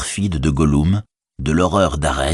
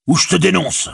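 a higher, louder call after him; orc cry; 11 semitones higher, 3 dB louder than usual. Acted. Orc soldier shouting after the departing tracker, loud cry. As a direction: yell at him to come back. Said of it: "s'écria le soldat".

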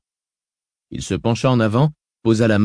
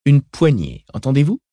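put-on child voice; 4 semitones higher, 4 dB louder than usual. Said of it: "commenta l'enfant".

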